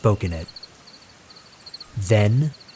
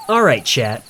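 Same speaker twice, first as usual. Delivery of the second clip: hyped streamer; 3 semitones higher, 4 dB louder than usual. Acted. The streamer hypes his live chat.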